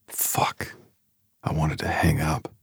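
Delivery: panicked whispered aside; whispering. Real, not acted. Panicked aside during phone call.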